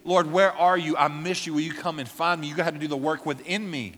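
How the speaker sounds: loud pleading as David; pleading psalm. Retold or imitated. David crying out to God in the psalm, loud pleading. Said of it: "David would say".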